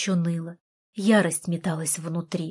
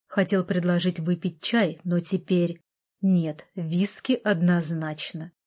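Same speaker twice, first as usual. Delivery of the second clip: snide. Acted. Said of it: "В его голосе явственно слышалось ехидство".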